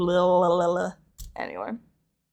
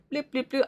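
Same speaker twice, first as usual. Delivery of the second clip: sloppy blip; 3 semitones higher, 4 dB quieter than usual. Shown as a demonstration. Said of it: "instead of my tongue being like".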